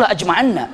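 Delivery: la ajma'anna with a held double nn; correct reading. Shown as a demonstration. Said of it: "Yang benar tuh".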